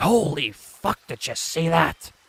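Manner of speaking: sudden, high-pitched, excited outburst. A streamer shows viewers how he reacts out of nowhere: sudden outburst. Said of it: "And then I'll be out of nowhere like".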